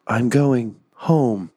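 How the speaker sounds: slow, drawn-out last words; writhing goblin, words dragged out slowly; dying goblin. Acted. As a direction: stretch it out as an agonized goblin's farewell.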